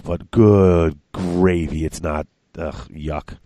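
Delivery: groaning with a chest cold; wheezy voice. Real, not acted. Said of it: "this stupid chest cold now".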